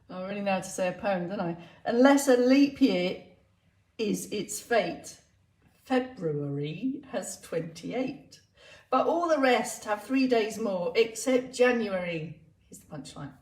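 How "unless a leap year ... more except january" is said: slow, deliberate verse with pauses; comic rhyme recital. Acted. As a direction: recite it line by line, spacing out the phrases.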